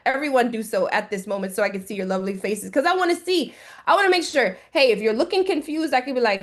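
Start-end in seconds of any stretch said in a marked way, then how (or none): none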